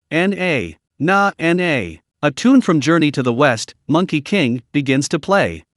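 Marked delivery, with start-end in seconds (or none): 0.1-2.0 mock suona note. A narrator's reading. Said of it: "blows a note".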